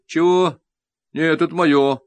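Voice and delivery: indignant artist, caught off guard; puzzled sculptor. A narrator's reading. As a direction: blurt it out, baffled. Sculptor confused, protests.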